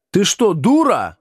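incredulous at her suggestion; amazed. A narrator's reading. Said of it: "изумляется Чебыкин".

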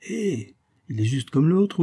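stretched, high-pitched emphatic repeat; emphatic echo. A narrator's reading. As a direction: echo it drawn out and lifted.

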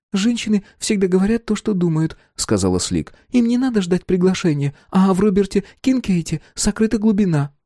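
high, earnest woman's voice; a touch of prim earnestness; prim Slick. Acted. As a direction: defend him sweetly but firmly. Slick defends the hero.

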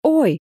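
high-pitched "oy!" of pain; short acted cry of pain; pained yelp. A narrator's reading. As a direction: yelp as if just struck on the head. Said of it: "заорал он".

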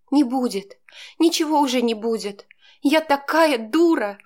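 tearful despair, rising to a cry on the last words; lightly sobbing self-reproach; choking on tears. Acted. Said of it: "Захлебнулась я слезами". (сквозь слёзы, с отчаянием)

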